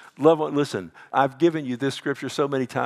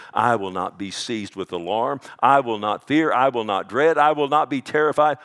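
building declaration. Real, not acted. Pastor builds defiant declarations.

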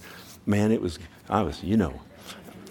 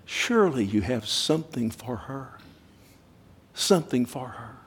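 tender plea; 2 semitones higher than usual. Retold or imitated. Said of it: "in tenderness".

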